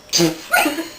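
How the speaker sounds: short spitting burst; alpaca noise. Pretend. Playing animal noises as an alpaca, spluttering. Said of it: "I'm an alpaca".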